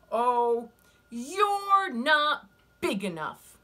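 loud, high, slow and sneering; scornful ladybug voice. Acted. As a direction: dismiss them from up high.

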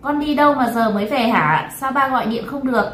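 angry father. Acted. Father questions daughter who came home late, angry. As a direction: scold like a cross father. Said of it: "ba nó đang vô cùng tức giận".

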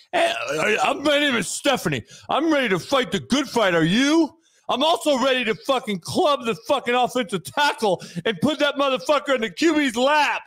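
a hint of a rousing superhero; lightly hammed-up heroic pledge. Defender rallying a client for battle, mock superhero voice. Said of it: "Why you sound like a superhero?".

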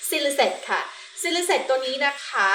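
Silicet said slowly and clearly; slow teaching pronunciation. Shown as a demonstration. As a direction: spell Silicet out slowly for the class. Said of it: "มันแปลเหมือนคำว่า namely".

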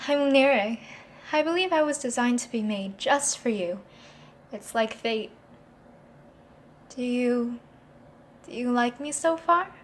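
sweet, eager to please; doting new girlfriend persona. Acted. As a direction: charm him, a bit shy.

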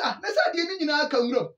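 high, fast shocked exclamation; shocked outcry. Retold or imitated. Retelling his shock at the weedy stadium, fast high outcry. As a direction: gasp it out in disbelief.

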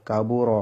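কাবু র with a thick, rounded final "ro"; heavy RA. Shown as a demonstration. Teacher repeats the rule's example, heavy "ro" in কাবু র. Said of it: "র মোটা হয়".

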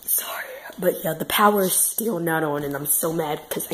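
real whisper, no voice at all. Real, not acted. Just woke up in the dark house, whispering to viewers. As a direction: whisper so nobody upstairs wakes.

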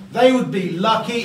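lucky said with a little extra weight; stress on lucky. Real, not acted. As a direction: lean gently on the word lucky. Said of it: "I do stress the word lucky".

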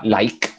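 "like" with a crisp, released final K; última letra pronunciada. Shown as a demonstration. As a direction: sound the last K of "like" clearly. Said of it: "pronuncio la última letra". ("like" con la K final bien marcada)

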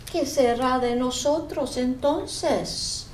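slow sad pumpkin voice; a dejected pumpkin asking; jack o lantern voice. Acted. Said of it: "Dijo la calabaza entristecida".

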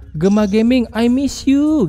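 pitch rising on the phrase. Shown as a demonstration. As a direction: lift "I miss you" well above the name. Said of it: "Gema gini aja".

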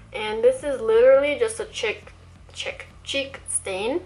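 talking around a dental retainer; slightly lisped words with a retainer in; wearing a retainer. Real, not acted. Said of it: "I'm wearing my retainer right now".

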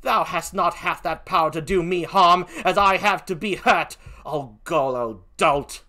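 put-on scornful British accent; defiant British-accented insult, slowing at the end; Emilia. Gentlewoman scorns the killer's threat, defiant in a British accent. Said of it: "please forgive my poor British accent".

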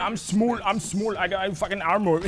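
high, loud mock whine of a teammate; mock whiny teammate. Quoting Torbjorn's complaint, a mock whine. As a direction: lightly imitate a teammate's protest. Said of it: "Torbjorn is like".

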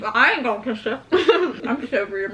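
talking through a mouthful; words around a bite of food; mouth full. Real, not acted. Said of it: "I'm talking with food right now".

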